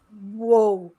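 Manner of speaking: loud, drawn-out "whoa"; retold shock. She recalls hearing about the addiction, shocked. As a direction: replay being taken aback. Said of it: "That, that really shocked me".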